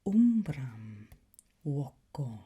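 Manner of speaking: voco said as WOH-ko, V as W; Latin pronunciation. Shown as a demonstration. Teacher models umbram voco for the class. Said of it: "the V ... is pronounced as a W".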